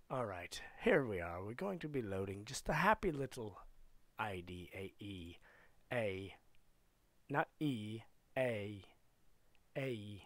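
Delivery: low, mock-English voice; playful imitation English accent; put-on English accent. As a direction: read it out in a cosy English accent. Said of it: "Enough of the English language there".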